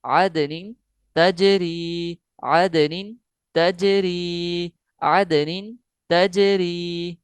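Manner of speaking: slow drawn-out Quran recitation; tajweed recitation. Shown as a demonstration. Teacher demonstrating the phrase to students, slow recitation. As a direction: stretch every syllable. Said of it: "उसके बाद है आदनिन तजरी".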